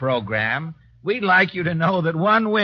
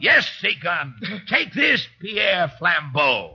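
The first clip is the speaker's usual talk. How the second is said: angry. Acted. Admiral shoots the cook.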